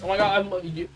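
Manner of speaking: high, loud mock-fanboy squeal; gushing superfan. Mocking a man idolizing his boss.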